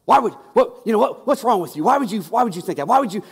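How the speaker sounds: loud, fast, defensive outburst; hostile retort. Retold or imitated. Threatened stranger confronting the pastor, loud and fast. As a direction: snap back as if offended.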